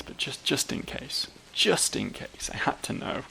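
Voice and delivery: hushed whisper of a guilty confession. Real, not acted. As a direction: breathe it out, almost voiceless. Sheepish confession of checking bins.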